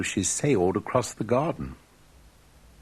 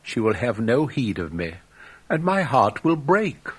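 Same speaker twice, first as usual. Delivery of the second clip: put-on lovesick young student; 3 semitones higher than usual.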